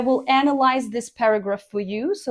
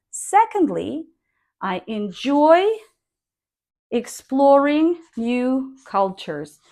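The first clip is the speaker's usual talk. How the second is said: Secondly rising, falling at the end of cultures; model intonation; 2 semitones higher than usual. Shown as a demonstration. Teacher modelling the statement for students, rising then falling. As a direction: rise on Secondly, fall to close. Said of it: "try to sound like this".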